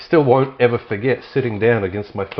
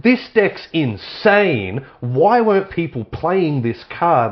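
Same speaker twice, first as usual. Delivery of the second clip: high, slow mock amazement; amazed; 7 semitones higher, 3 dB louder, slower than usual. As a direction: drag it out in wonder. Retelling looking back at decks.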